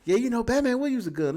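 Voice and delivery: mock writer voice. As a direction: toss it off like a careless writer.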